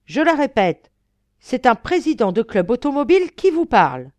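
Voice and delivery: high, very loud commanding tirade; furious bellowing. Acted. Count berates tram crew outside as club president, bellowing. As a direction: bellow orders and threats, pitched high. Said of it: "phrases hurlées par monsieur le comte".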